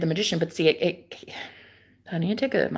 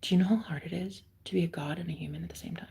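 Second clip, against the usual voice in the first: mocking whispered quote; 8 dB quieter, faster than usual. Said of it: "like, like".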